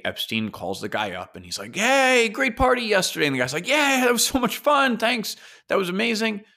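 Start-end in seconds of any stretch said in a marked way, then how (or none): 1.7-3.2 high, loud, chummy hello; breezy Epstein. Retold or imitated. Epstein calling the guest, mock cheerful. 3.7-6.4 much higher, delighted thanks; gushing guest. Retold or imitated. Guest thanking Epstein, high and delighted.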